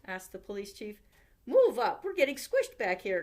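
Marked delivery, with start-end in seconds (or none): 1.4-3.2 louder complaining call. A narrator's reading. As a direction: call it out from the back. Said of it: "called the baker".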